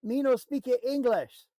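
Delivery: loud, slow mock shout; hammed-up loud broken English; mock yelling foreigner. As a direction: yell it slowly like they're deaf. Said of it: "So you're gonna yell at me louder?".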